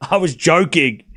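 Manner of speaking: slow, drawn-out insistence after a laugh; laughing exasperation, words dragged out; exasperated protest. Real, not acted. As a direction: stretch it out, exasperated with the chat. Protests to chat after joke missed.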